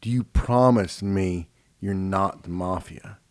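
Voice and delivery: grave, deliberate pleading; earnest child. Retold or imitated. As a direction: press Dad slowly for a promise. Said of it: "And he was like".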